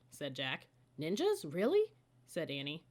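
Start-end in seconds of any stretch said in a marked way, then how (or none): 1.0-1.9 thrilled. Acted. Annie thrilled by ninjas.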